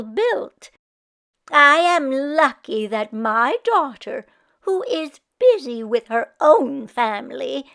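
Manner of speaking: put-on grateful old woman; Meshka voice. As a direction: count blessings proudly. Meshka praising her life.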